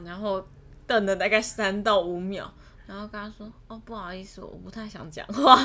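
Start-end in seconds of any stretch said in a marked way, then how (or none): 3.7-5.6 cold brush-off. Retold or imitated. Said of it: "冷冷的看着他".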